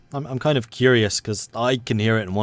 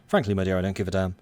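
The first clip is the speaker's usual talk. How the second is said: quoting a film line; 3 semitones lower, 5 dB quieter, faster than usual. Retold or imitated. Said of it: "That was the quote".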